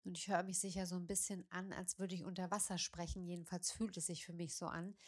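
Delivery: stuffy nose from a spring cold; talking through a blocked nose, as if underwater. Real, not acted. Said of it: "du hörst es wahrscheinlich, mich hat so ein leichter Frühjahrsschnupfen erwischt".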